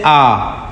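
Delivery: "आ" as a drawn-out open aa; sustained aa sound on "आ"; long open "आ". Shown as a demonstration. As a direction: hold "आ" as a long zabar vowel. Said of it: "इसकी आवाज़ ऊपर की तरफ उठती है".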